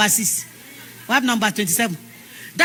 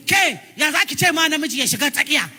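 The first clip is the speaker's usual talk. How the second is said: raised voice in Hausa, fast; angry man shouting; 5 semitones higher, faster than usual. Retold or imitated. Hausa man shouting at a woman in the motor park, angry. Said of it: "the man raised his voice".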